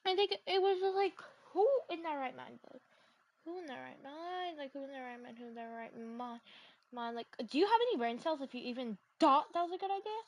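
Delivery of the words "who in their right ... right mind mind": softer with each repeat, lower; fading muttered repeat. Real, not acted. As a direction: trail off in disbelief. Repeated rhetorical question, fading.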